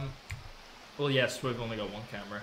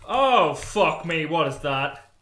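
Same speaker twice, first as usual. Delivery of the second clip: scared; 3 semitones higher, 11 dB louder, slower than usual. Real, not acted. Scared by something in game.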